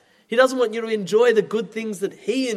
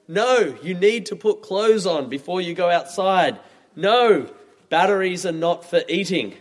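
parent saying no. Retold or imitated. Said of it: "words that come out of my mouth".

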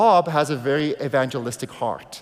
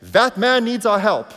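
raised, higher voice, urging to stop; loud retold urgent call from the driver's seat; Bob's urgent call; 6 semitones higher, 6 dB louder than usual. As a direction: call out that someone needs help. Bob retells urgent call to help.

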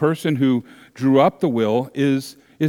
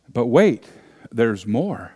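hammed-up TV salesman; infomercial pitch voice; 2 semitones lower than usual. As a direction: deliver it like a late-night ad. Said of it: "sounding like an infomercial or a commercial".

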